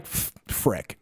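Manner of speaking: a stifled private swear; under-the-breath curse. Retold or imitated. Young interviewee realising the pitch, with a whispered curse.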